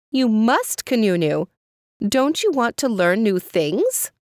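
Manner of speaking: high, coaxing mother voice; pleading mother. Acted. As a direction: urge the child, high and earnest. Mother urging her child.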